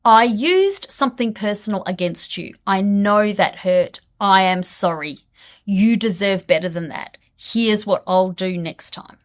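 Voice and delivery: sincere apology. Shown as a demonstration. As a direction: own up earnestly and evenly. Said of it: "It sounds like this".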